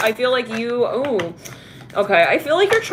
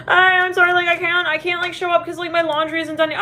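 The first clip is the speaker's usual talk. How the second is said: high, put-on apologetic voice; hammed-up apology, pitched way up; mock lame excuse; 9 semitones higher than usual. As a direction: mimic a flake bailing out with a silly excuse. Acts out another lame excuse.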